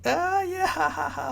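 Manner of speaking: high, strained ah yeah ha ha; anxious polite giggle; nervous fake laugh. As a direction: force a scared laugh up high.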